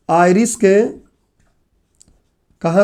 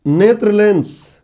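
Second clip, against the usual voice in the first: very slow, drawn-out heading for note-takers; slow dictation; much slower than usual. Real, not acted. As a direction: dictate it slowly, stretching each word. Teacher dictates heading to class. (धीरे-धीरे खींचकर लिखवाते हुए)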